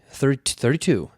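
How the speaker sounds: jittery, edgy repeat of the floor number; a man barely holding it together in a lift; nervous attendant. Retold or imitated. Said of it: "this really nervous".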